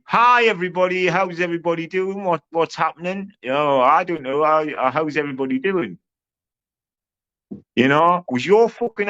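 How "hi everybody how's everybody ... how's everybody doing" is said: higher, mock-polite cheery hello; mocking imitation. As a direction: mimic him as a timid people-pleaser.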